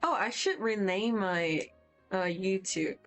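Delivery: usual speaking voice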